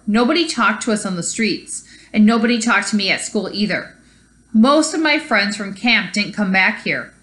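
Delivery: put-on reading a story aloud to kids; story narration. A narrator's reading. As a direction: tell it like a read-aloud storybook. Teacher reads picture book aloud.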